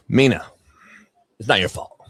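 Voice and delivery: low, soft, hushed; mock sincere apology. Real, not acted. Apologizing to Mina, mock tender low voice. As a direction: fake heartfelt calm.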